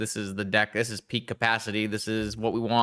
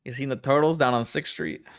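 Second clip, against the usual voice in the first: put-on playful New York street accent; 3 semitones higher than usual. New Yorker asking about turtles on Sixth Street, put-on accent. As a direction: ask it like a mock New Yorker. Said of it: "in a New York accent".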